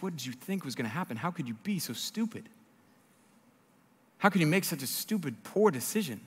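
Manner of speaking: soft, incredulous questioning; exasperated disbelief. Acted. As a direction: lean on each question in pained disbelief. Exasperated reader scolding Samson.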